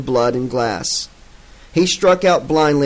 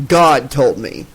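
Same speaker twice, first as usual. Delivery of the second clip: irritated; 4 dB louder, slower than usual. Acted. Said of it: "irritated as he hit".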